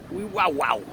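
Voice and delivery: shivering wee wow wow; cold shiver noise. Real, not acted. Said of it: "I'm freezing my nuts off".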